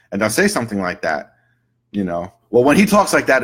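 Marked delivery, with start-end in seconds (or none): 2.5-3.4 higher, louder acted grievance; complaining client. Client tells practitioner what he does, aggrieved. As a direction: voice a client griping about him.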